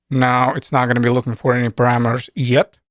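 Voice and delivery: "yet" set apart at the end with a lift in pitch; emphasize "yet" as the key word; stress on yet. Real, not acted. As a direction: lean on the final word "yet". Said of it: "And I emphasize word yet".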